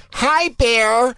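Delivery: high, put-on girly greeting; hot girl. Comic imitating a girl approaching the bear, high and girly. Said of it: "walk up to the bear and just go like".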